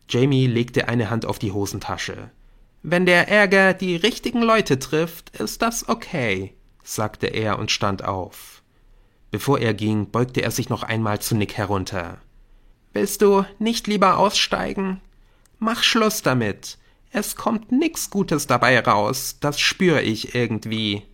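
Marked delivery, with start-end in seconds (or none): 2.8-6.5 higher, determined retort; defiant resolve. Acted. Jamie stands firm against Nick. 12.9-21.0 higher voice, urgent plea, settling at the end; pleading schoolboy. Acted. Jamie urges Nick to quit.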